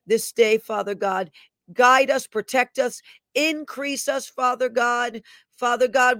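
earnest, rhythmic prayer with emphatic appeals; fervent prayer. Real, not acted. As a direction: pray aloud to God with authority, listing each petition. Leads an opening prayer.

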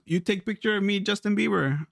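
mock Asian-accented English; lightly put-on Asian accent; imitated Asian accent. Museum visitor asks for a photo, mock Asian accent. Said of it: "you do the accent".

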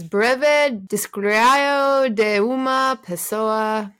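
slow, careful Portuguese read by a learner; reading foreign language. Shown as a demonstration. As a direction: sound out the Portuguese words slowly. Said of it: "we all know I'm great at pronunciation".

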